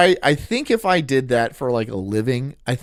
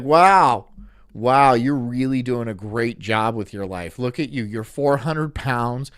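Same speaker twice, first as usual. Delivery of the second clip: sarcastic; 3 semitones lower than usual. Pretend. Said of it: "being sarcastic to everybody".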